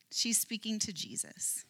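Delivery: whispered for effect, no voice; a storyteller's whispered reveal; hushed whisper. Acted. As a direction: drop to a breathy whisper to reveal it. Dramatic reveal in sermon.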